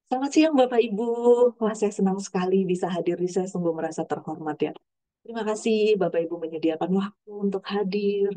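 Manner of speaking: glad, heartfelt welcome; greeting with feeling. Shown as a demonstration. Speaker greets the audience to show talk with emotion, heartfelt and glad. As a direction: sound truly honored they came. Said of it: "Bedakan dengan misalnya saya gini".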